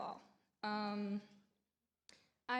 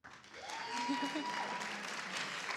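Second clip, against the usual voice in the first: nervous laugh; 4 semitones higher than usual. Real, not acted. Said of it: "I'm nervous".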